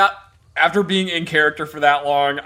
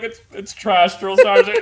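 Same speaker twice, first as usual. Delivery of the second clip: laughing, rising high at the end; private answering; 4 semitones higher, 4 dB louder than usual. Retold or imitated. Private answering the drill sergeant, laughing high reply. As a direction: squeak it out through laughter. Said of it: "He's like".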